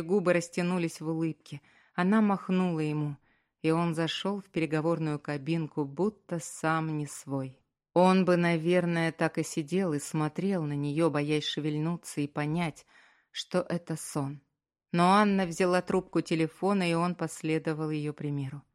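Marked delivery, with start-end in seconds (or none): none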